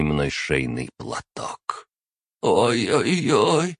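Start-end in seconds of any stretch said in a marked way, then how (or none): 2.4-3.8 high, slow, louder pained whimper; dying familiar whimpering; whining. Acted. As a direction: moan it out slowly like a hurt creature. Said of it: "ныл он всё тише".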